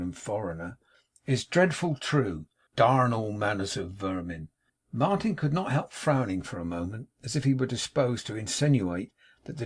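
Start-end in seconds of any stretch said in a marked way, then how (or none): 1.2-4.5 condescending. Acted. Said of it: "nodding condescendingly to Martin".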